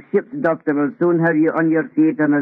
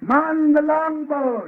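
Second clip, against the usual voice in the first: captain's order; 8 semitones higher, slower than usual. Acted.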